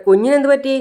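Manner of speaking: high, worried cry of a question; anxious question. Acted. Mother asking the nurse about the baby, alarmed and high. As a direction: ask it in a sudden rush of fear.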